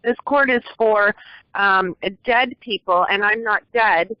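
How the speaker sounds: the judge's words said again, slowly; slowing down on dead people, at the host's request. Shown as a demonstration. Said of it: "Say that one more time slowly".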